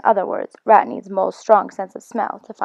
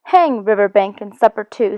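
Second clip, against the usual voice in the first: "Hang" thrown out hearty and louder; 5 dB louder than usual. Acted. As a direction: dismiss "Riverbank and supper too" with hearty gusto. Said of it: "said the Rat heartily".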